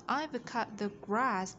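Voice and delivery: slow "I've cut the grass" with the tongue pushed out on "the". Shown as a demonstration. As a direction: model the th in "the" slowly. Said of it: "T H chúng ta đẩy lưỡi". (đọc chậm, đẩy lưỡi âm th trong "the")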